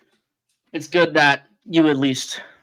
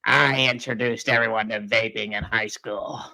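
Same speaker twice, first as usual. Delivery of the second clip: raspy smoker voice; 2 semitones lower, 4 dB quieter, slower than usual. Retold or imitated. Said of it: "commercials for the people that smoke too much".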